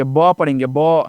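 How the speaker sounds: ब as a short "buh", not "bee"; letter sound ब, "buh". Shown as a demonstration. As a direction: sound out ब with a short open vowel. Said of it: "बी को हम बी नहीं पढ़ेंगे".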